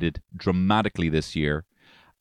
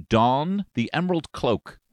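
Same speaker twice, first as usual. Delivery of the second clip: grandiose; 8 semitones higher, slower than usual. Acted. Grand mock phrase.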